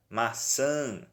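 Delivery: MAÇÃ with a held nasal final Ã; MAÇÃ ending on a drawn-out nasal vowel; nasal vowel example. Shown as a demonstration. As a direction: let the end of MAÇÃ ring in the nose. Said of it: "som mais anasalado".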